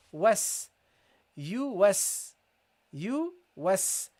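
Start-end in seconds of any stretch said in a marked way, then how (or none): 1.4-4.1 you was in two separate beats, YU then WAS; two units. Shown as a demonstration. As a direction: split you was into yu, pause, was. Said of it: "now you got two units".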